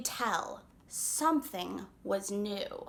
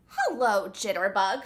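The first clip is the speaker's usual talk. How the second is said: shouted greeting; 3 semitones lower, 3 dB louder than usual. Acted. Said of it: "shouted Toast".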